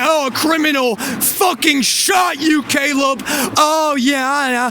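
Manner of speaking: mocking the lady. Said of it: "It's like".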